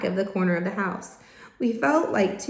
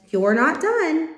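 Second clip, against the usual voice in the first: stern; 7 semitones higher, 5 dB louder, slower than usual. Acted. Father stern with tired boys.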